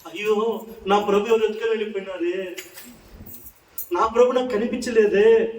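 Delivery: tearful lament. Acted. Preacher voicing Mary searching for her Lord, mild acted lament. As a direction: lament it, lightly hammed-up. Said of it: "నువ్వు ఎందుకు ఏడుస్తున్నావమ్మా".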